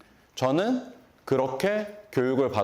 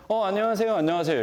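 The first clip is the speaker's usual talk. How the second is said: bright, higher hello offered twice; eager greeting; 7 semitones higher, faster than usual. Retold or imitated. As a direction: greet the young neighbours eagerly. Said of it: "얘기했는데".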